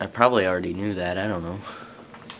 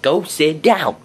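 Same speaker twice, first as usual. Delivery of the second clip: sharp yell, higher and louder; teacher yelling; 7 semitones higher, 7 dB louder, slower than usual. Retold or imitated. Teacher ordering his best friend back to his seat, mock yell. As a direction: bark it like a strict teacher. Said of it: "she yelled at my best friend".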